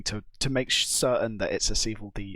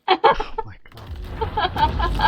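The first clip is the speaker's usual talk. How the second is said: drawn-out exclaim; 7 dB louder, much slower than usual. Real, not acted. Wardens spawned.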